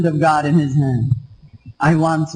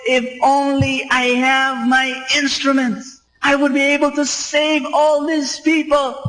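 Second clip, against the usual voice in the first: retold scream; 7 semitones higher than usual. Doctor among the injured begging for his instruments, high mock wail. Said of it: "he screamed to the top of his voice".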